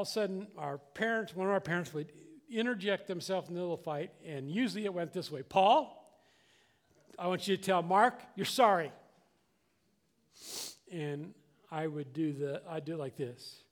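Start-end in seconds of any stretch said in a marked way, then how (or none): 5.4-8.9 loud parental order, firm; raised voice of an intervening parent; stern parent. Retold or imitated. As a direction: call out the culprit and order an apology. Parent breaking up children's fight.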